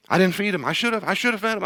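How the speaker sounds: high, hammed-up wailing apology; mock wailing. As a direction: wail it like an over-the-top guilty friend.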